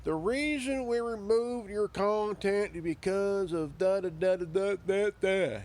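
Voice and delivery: lightly mocked platform spokesperson, evenly pitched; mock official notice. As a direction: recite it like a rote notice, mockingly. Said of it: "YouTube likes to say".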